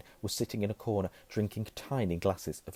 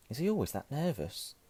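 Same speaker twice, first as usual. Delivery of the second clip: put-on higher-pitched boy's voice; curious boy; 6 semitones higher, 4 dB quieter than usual. A narrator's reading. Harry asks Hagrid about the professor, curious. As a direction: ask with lifted, curious pitch.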